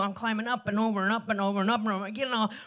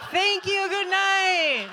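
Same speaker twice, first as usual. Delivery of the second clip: big sign-off; 8 semitones higher, 4 dB louder, slower than usual. Real, not acted. Closing the comedy set.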